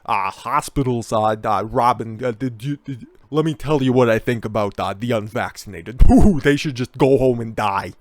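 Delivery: lightly mock Stern ranting to Robin about the unvaccinated; Howard Stern impression. Host lightly imitating Howard Stern talking to Robin. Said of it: "Howard Stern".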